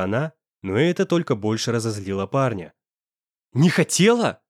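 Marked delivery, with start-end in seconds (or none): 3.5-4.4 «Не хотела?» thrown back higher, with scorn on «хотела»; spat back. A narrator's reading. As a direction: spit the words in her face. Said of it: "выплюнул он ей в лицо". (зло выплюнуть «Не хотела?» с нажимом на «хотела»)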